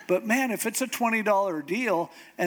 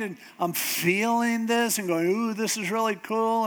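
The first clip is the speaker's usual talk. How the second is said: imitating an upset mother, higher voice; higher, emphatic mock grievance; mock mad mom; 5 semitones higher than usual. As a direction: retell mom's aggrieved complaint, pitched up. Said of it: "gets all mad".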